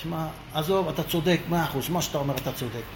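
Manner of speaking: שחזור פיוס בקול נמוך ושקט; להסכים איתו בשקט כדי להרגיע; ויתור מפייס. Retold or imitated. מפייס את הצועק, מוותר לו. (ויתור שקט ומרגיע)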